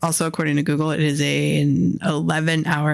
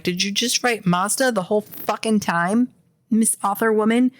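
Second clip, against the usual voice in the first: higher-pitched incredulous questioning; indignant mock interrogation, pitched up; exasperated confrontation; 5 semitones higher than usual. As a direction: call out the author in mock outrage. Imagined confrontation with the author.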